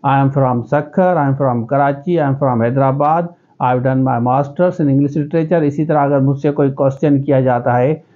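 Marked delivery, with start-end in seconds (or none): 0.0-5.6 slow English in a local Sindhi accent. Shown as a demonstration. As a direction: speak English slowly in your own Sindhi accent. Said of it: "मैं इसी हिसाब से बोलूँगा". (सिंधी लहजे में धीमी अंग्रेज़ी)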